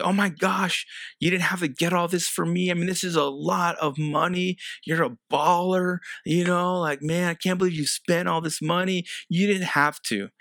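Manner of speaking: a hint of a surprised, flattered wife; wife's surprised thanks. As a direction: play the delighted wife, lightly. Wife voiced in Valentine's story.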